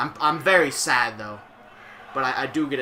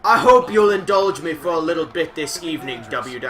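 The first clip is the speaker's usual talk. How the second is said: a bad, light Scottish accent, louder; terrible Scottish accent; 3 semitones higher, 6 dB louder than usual. Streamer reading Drew McIntyre's promo in a bad Scottish accent. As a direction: fake a Scottish wrestler poorly. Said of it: "I have a fucking terrible Scottish accent".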